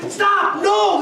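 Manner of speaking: loud, high telling-off; parent yelling. Retold or imitated. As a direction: snap it at the noisy kid. Parent yelling at banging child.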